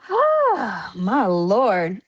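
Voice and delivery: suddenly remember something exciting; excited exclamation. Real, not acted. Host about to announce WrestleCon to the guest, excited outburst.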